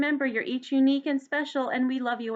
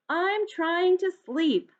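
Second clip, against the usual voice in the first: high, louder little mouse voice, slow; squeaky mouse; 7 semitones higher, 3 dB louder, slower than usual. Acted. Mouse woken by the noise, squeaky and cross. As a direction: squeak it out like a tiny annoyed mouse. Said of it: "Mouse asked".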